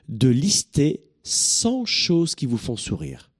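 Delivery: cent stretched out slowly and leaned on; stress on cent. Shown as a demonstration. Coach insisting on a hundred, leaning hard on cent. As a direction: drag out the whole line and hit cent. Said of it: "Mais t'as dit cent, là?".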